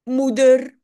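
relieved reveal. A narrator's reading. Mother arrives, story climax.

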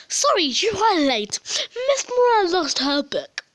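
loud sign voice. Pretend. Sign voice, louder, slower.

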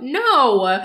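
high, loud whining protest; Rabbit's high, loud exasperated whine. Retold or imitated. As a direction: plead that you did your job.

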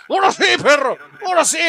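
high, loud triumphant yell; high-pitched hollering; excited shout. Real, not acted.

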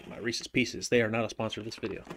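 talking while crunching candy; chewing between words; mouth full. Real, not acted. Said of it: "you probably hear me crunching on that".

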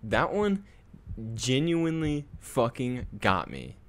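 very high, very loud scream of fright; terrified scream. Real, not acted. Streamer screaming at a jumpscare to chat. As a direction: shriek at the scare.

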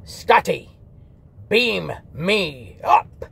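slow, halting Kirk impression with pauses between words; lightly voiced mock Kirk; Captain Kirk. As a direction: pause after every word like a satirized Kirk. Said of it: "they have Captain Kirk going".

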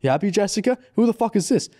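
high-pitched mock confrontation; accusing questions, mild mock yell; retold yelling. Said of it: "he starts yelling at the girl".

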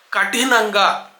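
కఠినంగా with plain k, aspirated ఠ; careful model కఠినంగా, ka-THI-nanga; correct aspirated tha. Shown as a demonstration. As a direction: puff the ఠ in కఠినంగా, not the క. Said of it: "తాకి ఒత్తుంది".

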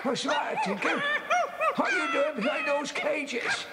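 high, sing-song coaxing to a pet; cooing at the dog. Acted. Old caretaker cooing high at his dog. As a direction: coo at the dog like a fond old man.

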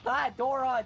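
loud, high-pitched wail of protest; dismayed cry. Real, not acted. Player begging Doran not to do this, dismayed cry. Pleads as unit misses.

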